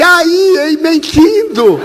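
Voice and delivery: put-on high, teasing little boy, hands on hips; child's voice. Julinho mocking the uncle's lie, high child voice. Child catches adult lying.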